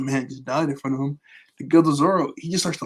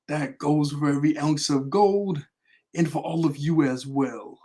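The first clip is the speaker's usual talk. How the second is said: slow, measured recital of a menacing speech; slow, ominous villain speech read from memory; dramatic villain monologue; slower than usual. Pretend. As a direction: deliver it like a ruthless tycoon addressing his city. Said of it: "I'm gonna try to say it here".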